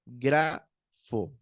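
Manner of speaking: "Grafo" in two parts, GRA then fo; accent the A of "Grafo", pause, then drop onto "fo"; deliberate "Grafo", first syllable stressed; stress on first vowel. Shown as a demonstration. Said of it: "con acento en la primera".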